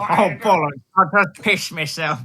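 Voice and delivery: put-on British accent. Continuing the British voice.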